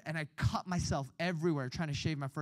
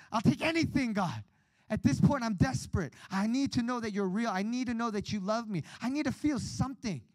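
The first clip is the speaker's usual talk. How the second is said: desperate plea; 5 semitones higher than usual. Retold or imitated. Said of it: "And I was like".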